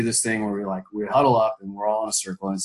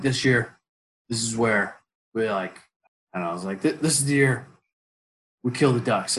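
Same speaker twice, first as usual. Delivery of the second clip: warrior talk. Retold or imitated. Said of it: "doing my warrior talk".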